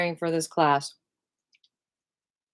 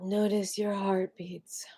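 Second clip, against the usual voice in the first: softer, slow whispered cue; 7 dB quieter, slower than usual. Acted. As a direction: breathe the words out.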